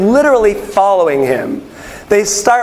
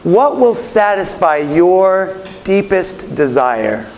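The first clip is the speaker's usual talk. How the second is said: searching question; slower than usual. Acted. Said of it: "the kind of thing I'm imagining that he's asking".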